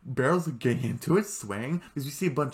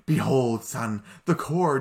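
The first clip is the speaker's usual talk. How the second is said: louder, slow booming behold; grand proclamation; 7 dB louder, slower than usual. Retold or imitated. Vlogger imitating the king presenting the core, loud and slow. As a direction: announce it slowly and grandly. Recapping king's grand reveal.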